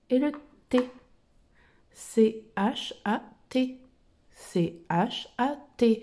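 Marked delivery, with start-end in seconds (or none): 1.9-3.8 slow spelling. Shown as a demonstration. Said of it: "Le C, le H". 4.3-6.0 slow spelling. Shown as a demonstration. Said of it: "Le C, le H".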